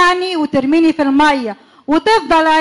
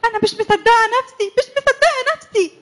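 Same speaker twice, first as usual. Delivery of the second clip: rising higher with joy at the sea; delighted; 5 semitones higher than usual. Acted. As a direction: gush like you finally got your holiday.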